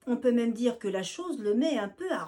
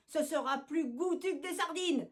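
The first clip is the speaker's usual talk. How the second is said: annoyed; 6 semitones higher than usual. Acted. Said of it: "s'énerve Nénès le rouquin".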